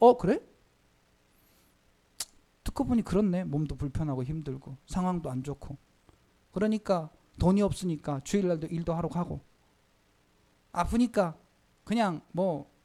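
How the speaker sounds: low, soft, resigned giving-up voice.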